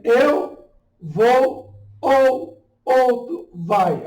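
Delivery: "Eu vou ou outro vai" very slowly, vowels stretched; hiatus demonstration. Shown as a demonstration. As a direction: draw out each word of "Eu vou ou outro vai", exposing the colliding vowels. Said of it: "São hiatos".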